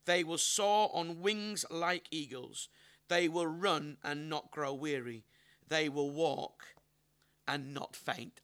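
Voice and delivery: slow, deliberate Bible reading with long pauses; scripture reading. Acted. Preacher reads Isaiah's passage to the congregation, slow scripture reading. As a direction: draw out each phrase of the passage, slowly.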